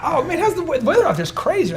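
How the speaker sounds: small talk. Retold or imitated. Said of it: "I'm like".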